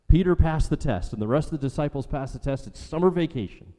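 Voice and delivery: high, excited announcement of good news; mock celebration. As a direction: crow it like school just let out. Mock celebration of passing the test.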